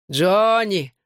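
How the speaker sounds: high call across the bar. A narrator's reading. Bar owner calls Johnny from the counter. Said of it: "окликнул меня из-за стойки Лем".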